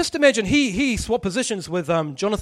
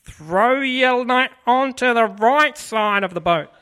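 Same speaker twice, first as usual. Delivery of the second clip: slow, loud, higher, with a laugh; commanding voice of Jesus, drawn out; Jesus calling out; 6 semitones higher, 9 dB louder, much slower than usual. Retold or imitated. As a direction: call the instruction across the water. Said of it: "he calls out to them".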